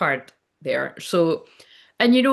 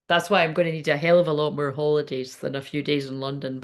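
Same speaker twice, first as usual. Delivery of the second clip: whispering; 3 semitones lower than usual. Real, not acted. Quiet aside about needing holidays.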